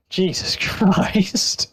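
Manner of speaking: exasperated. Real, not acted. Reaction to long show.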